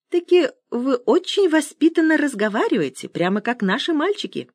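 put-on high-pitched old man's chat. A narrator's reading. Old man explains himself to young caller, high voice. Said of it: "пояснил Сёма".

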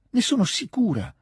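passionate near-shout of "ne sono sicura" to the dying man; almost a cry. Acted. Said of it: "gridò quasi Natascia". ("ne sono sicura" quasi gridato, molto più acuto e forte)

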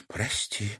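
very soft, barely voiced sorry; girl apologising under her breath; mouthed apology. A narrator's reading. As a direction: breathe it almost silently. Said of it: "одними губами произнесла Серафима".

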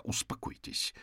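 low-key, impatient order; soft but impatient command; impatient demand. A narrator's reading. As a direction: quietly demand calm, out of patience. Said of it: "нетерпеливо потребовал Джейкоб".

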